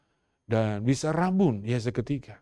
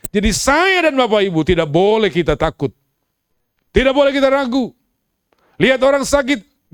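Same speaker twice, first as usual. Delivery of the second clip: full-force preaching; 8 semitones higher, 9 dB louder than usual. Acted. Pastor urging the church not to fear, preaching at full force. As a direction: drive every line home to the congregation.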